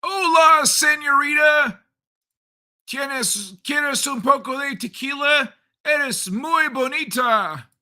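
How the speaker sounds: loud, high Spanish lover voice; hammed-up flirty Spanish caballero; mock Spanish. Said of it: "how's that for some Spanish".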